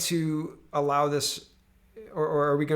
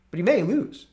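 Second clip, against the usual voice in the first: mock high; 5 semitones higher, 3 dB louder than usual. Repeated mock.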